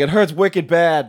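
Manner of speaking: lightly put-on Boston toy-crab accent; imitating Boston accent. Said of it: "had a Boston accent".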